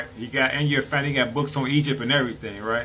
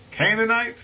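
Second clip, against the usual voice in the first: sharply higher questioning rise; incredulous echo; 8 semitones higher than usual. Real, not acted. Echoing the book's word to viewers, incredulous rise. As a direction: repeat it as if you can't believe it.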